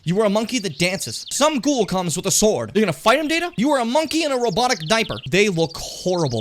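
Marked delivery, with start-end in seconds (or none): none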